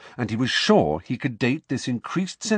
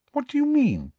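startled question. Acted. Hermione demands, sharply raised pitch.

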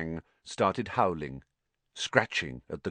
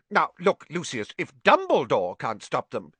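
higher, agitated objection; nervous protest; 8 semitones higher, 4 dB louder than usual. A narrator's reading. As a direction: plead with rising alarm. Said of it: "whose upper lip was sweating now".

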